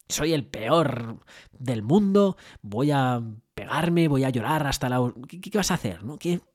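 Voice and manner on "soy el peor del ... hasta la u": slow, hammed-up self-pity; mock despair. Owner imagining giving up after the mistake, mock despairing. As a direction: drag out a dramatic lament.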